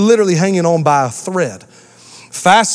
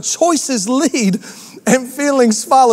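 slow slogan; 4 semitones higher, slower than usual. Shown as a demonstration. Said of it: "I'd write that down".

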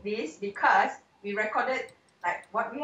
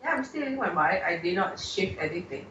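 echoey room sound; big hall echo; 4 semitones lower than usual. Real, not acted. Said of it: "Oh, that's really weird".

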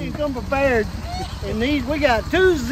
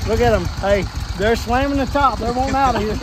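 excited; 4 dB louder than usual. Real, not acted. Frogs slamming the bucket lid.

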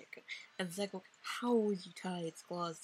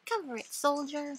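raised, loud military order; commanding officer; 6 semitones higher, 5 dB louder than usual. Acted. Officer ordering soldier onto grenade, commanding. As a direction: shout a mock order at a recruit.

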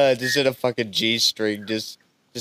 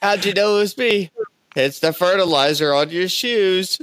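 caught villain; 7 semitones higher than usual. Acted. Acted Scooby-Doo unmasking scene.

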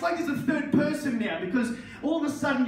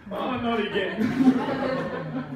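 weary groan; 2 semitones higher, much slower than usual. Retold or imitated. Waking up hungover again.

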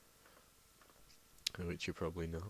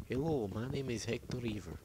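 friend's intro line; 5 semitones higher, 5 dB louder than usual. Retold or imitated. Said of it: "he just goes".

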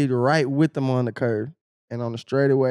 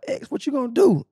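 hype call; 10 semitones higher than usual. Retold or imitated. Retold hype taunt at track.

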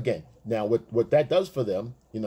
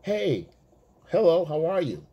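flirty woman; 6 semitones higher than usual. Retold or imitated. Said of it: "and they go".

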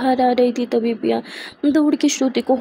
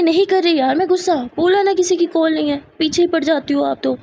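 raised, irritated retort; irritated snap; 4 semitones higher than usual. Acted. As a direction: snap back at a nagging friend. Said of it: "पिया यहाँ श्रुति के साथ थोड़ा misbehave करती है". (चिढ़कर ऊँची आवाज़ में झिड़कना)

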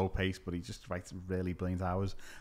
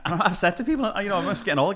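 high, loud, through laughter; laughing while talking; 8 semitones higher, 7 dB louder, faster than usual. Real, not acted. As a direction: giggle through the words. Laughing while telling story.

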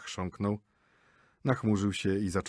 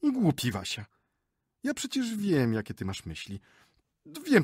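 higher, gushing chatter; boastful lady; 6 semitones higher than usual. Acted. Wife boasts to husband about her Tatar guide, higher and chatty. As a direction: show off how you ruled him.

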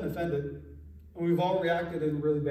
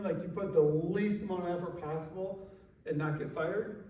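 ordinary delivery

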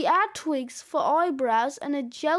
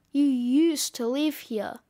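lightly voiced gruff snowman; a mildly smug, gruff put-down; gruff correction; 2 semitones lower than usual. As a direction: correct them coolly, a touch gruff. Snowman coolly corrects the child.

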